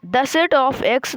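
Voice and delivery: "The set of X" stretched out word by word; slowly read out. Shown as a demonstration. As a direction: spell out "The set of X" slowly like dictation. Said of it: "एक्स को मतलब बोलना है हमको".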